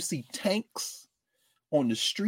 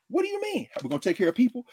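mock incredulous politician; 6 semitones higher, much faster than usual. Mocking politicians' reaction.

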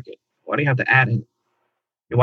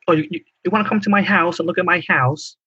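put-on Long Island accent; 7 semitones higher than usual. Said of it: "They just have an annoying tone".

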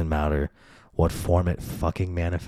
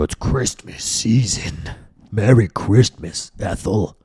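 mock yell; 3 dB louder, slower than usual. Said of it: "And they just yell it".

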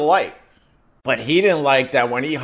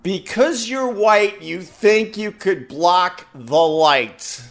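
quoting the angry driver; 4 semitones higher, much slower than usual. Retold or imitated. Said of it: "exactly what he said to me".

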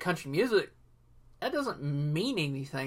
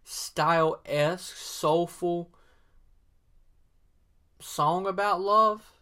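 lazy soulful drawl; slow smooth R and B; 2 semitones higher, much slower than usual. Shown as a demonstration. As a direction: croon it slow like an R and B singer. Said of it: "this slow, smooth R and B".

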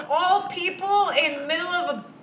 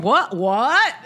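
louder rising startled questions; seeing ten thousand downloads, shocked; shocked what; 5 dB louder than usual. Retold or imitated. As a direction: react as if you can't believe it. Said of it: "and I went".

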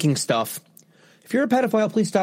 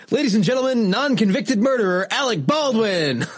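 mock announcer; 4 semitones higher than usual.

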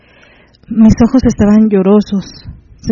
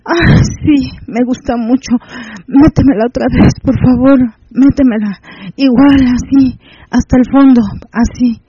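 higher, eager begging between moans; aroused pleading; 3 semitones higher than usual. Acted. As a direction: plead for more, pitched up. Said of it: "Yo solo pude decir".

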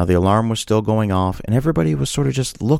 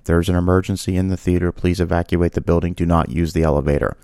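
lower, even-pitched recorded announcer; loudspeaker announcement; 4 semitones lower than usual. Retold or imitated. Loudspeaker voice telling theater to evacuate, imitated lower announcement. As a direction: lightly imitate an automated evacuation message. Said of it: "a voice over the loudspeaker".

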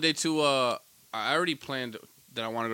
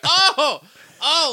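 high laughing gasps; dying laughing; 13 semitones higher, 7 dB louder than usual. Retold or imitated. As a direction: laugh helplessly, clutching chest. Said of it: "I'm dying".

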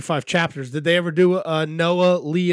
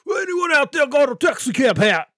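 slow, halting, higher put-on voice; Walter Junior; 4 semitones higher than usual. Calling out to a crowd for a hat, halting impression. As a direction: stumble through a high, drawn-out character voice. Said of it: "that was like Walter Junior from Breaking Bad".

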